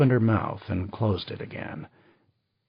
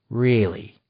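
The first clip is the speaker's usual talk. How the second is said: disbelief; 4 dB louder than usual. Acted. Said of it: "He said it for what it was, disbelief".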